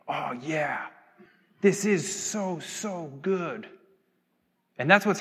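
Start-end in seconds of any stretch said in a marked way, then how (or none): 0.1-3.7 hushed, savouring, lightly acted; overwhelmed awe. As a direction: start in a near whisper, savour it. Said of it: "we are overwhelmed at times".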